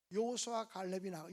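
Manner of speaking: ordinary delivery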